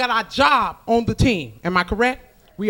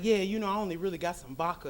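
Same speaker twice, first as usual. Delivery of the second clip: fast, much softer offhand host; mock apologetic host; 3 semitones lower, 11 dB quieter, faster than usual. Lightly voiced host offering vodka, soft and quick. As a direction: mumble the apology. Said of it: "they be like".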